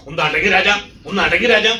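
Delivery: rising to a loud, high shout of Raja; father at the fair shouting down his crying boy, building to a yell; exasperated call. Retold or imitated. Father scolding his crying son.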